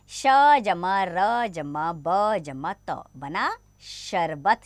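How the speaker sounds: very slow, letter by letter; slow spelling out. Shown as a demonstration. Teacher spells sharbat slowly for young pupils. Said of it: "चार वर्णों से बने शब्द".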